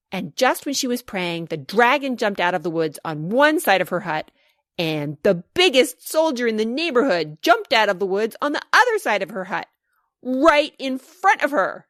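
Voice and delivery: building shout. Acted. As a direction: build from telling to shouting, stretch the last words. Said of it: "shouted Elias".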